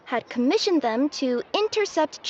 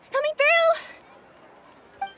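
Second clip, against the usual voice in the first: drawn-out call; 12 semitones higher, much slower than usual. Acted. Repeated call, stretched.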